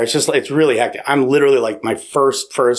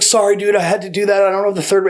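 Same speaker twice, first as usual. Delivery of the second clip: higher-pitched imitated apology; raised-voice mock apology; retold apology; 8 semitones higher, faster than usual. Acting out the cop's hurried apology.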